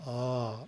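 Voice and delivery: a long open ah sound, held; prolonged ah. Shown as a demonstration. Teacher demonstrating the first syllable of Om, prolonged ah. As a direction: stretch Ah out, open throat. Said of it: "pronounced as the English word ah, but prolonged".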